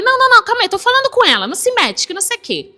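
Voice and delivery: high, loud mock scolding of the wife; imitating rude father. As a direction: cut her off like an impatient father. Father snaps at wife at table. (pai cortando a esposa com grosseria, imitado alto)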